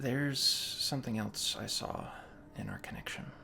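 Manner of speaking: very low, hushed, secretive voice. Narrator voicing a character speaking to a player when no one else is around, very low voice. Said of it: "she says really low in a low, very low voice".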